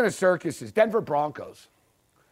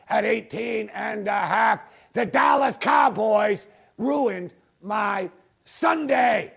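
drawn-out shout; slower than usual. Real, not acted. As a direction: drag out every word in rage. Angry fan rant finale.

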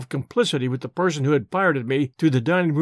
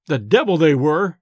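louder, irritated outburst; irascible exclamation; 4 dB louder than usual. Acted. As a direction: snap it out in annoyance. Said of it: "I exclaimed irascibly".

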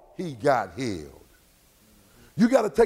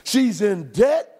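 impassioned preaching; 4 semitones higher than usual. Acted. Preacher builds over music.

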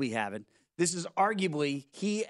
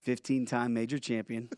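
hushed, low golf announcer voice; golf commentator; 7 semitones lower than usual. Pretend. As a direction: murmur it like a TV golf broadcast. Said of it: "give me a golf announcer voice".

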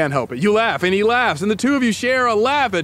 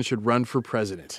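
whisper; 7 semitones lower, 7 dB quieter than usual. Acted. Dramatic reveal to co-host.

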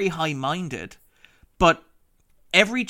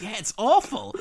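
said through a laugh, higher; laughing agreement; 7 semitones higher than usual. Retold or imitated. Agreeing in a quoted aside.

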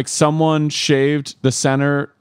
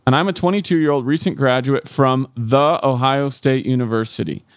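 reading a love letter; 2 semitones higher, slower than usual. Acted. Reads listener letter aloud.

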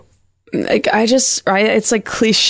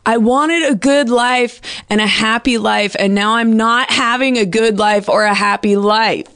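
mock toddler yell; 4 semitones higher than usual. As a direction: act out a three-year-old protesting bedtime. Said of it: "he was fighting it and he yelled".

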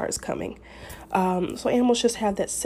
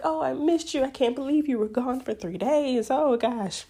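higher, gushing voice greeting the dog; excited high-pitched greeting; 5 semitones higher than usual. Acted. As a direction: coo at the dog you missed, pitched up. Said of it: "the high-pitched voice that you used whenever you first walked in".

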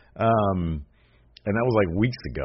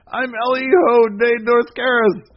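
much higher, slow mock voice; protesting brother; 5 dB louder than usual. Brother insisting who he is, much higher slow mock voice. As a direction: stretch out "El Hijo de Dos Caras" high and pleading. Brother answers Alberto's yelling.

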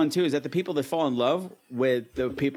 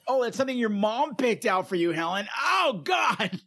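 mock taunt; 4 semitones higher than usual. Mock taunting Helen's sweater.

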